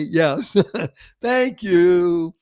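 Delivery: thanking your sore toe; laughing thank you. Pretend. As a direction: chuckle through the thanks. Stubbed toe at night.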